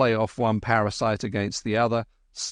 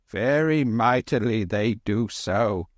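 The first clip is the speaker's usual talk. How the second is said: sighed. Acted. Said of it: "sighed the old lady".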